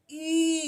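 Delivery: "ई" drawn out slowly with lips barely open; a teacher showing a barely open "ई"; slow vowel demo. Shown as a demonstration. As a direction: stretch "ई" with a narrow mouth. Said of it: "इसमें तो और भी कम खोला है जी".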